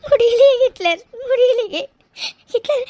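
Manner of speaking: sobbing cry of despair. Acted. Mega to Hitler, sobbing that she cannot bear it. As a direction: break down completely. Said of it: "அழாதடி".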